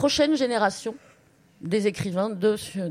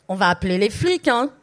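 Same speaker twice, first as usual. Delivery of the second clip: mildly acted loud threat; a touch of neighbourly outrage, louder; complaining neighbours; 6 dB louder than usual. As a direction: raise the voice as an annoyed neighbour. Neighbours threaten police in story reading.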